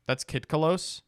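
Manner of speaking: gasping, rising disbelief; astonished. Real, not acted. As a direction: ask it as if you can't believe your eyes. Gasping at a surprise card resemblance.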